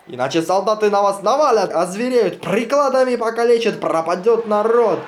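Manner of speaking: high, loud urgent pleading; frantic warning. Acted. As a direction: beg them loudly to save themselves. Pleading with crowd before shooting.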